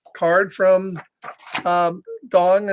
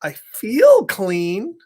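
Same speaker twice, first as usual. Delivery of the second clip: smug pigeon; much slower than usual. Acted. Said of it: "And the pigeon's like".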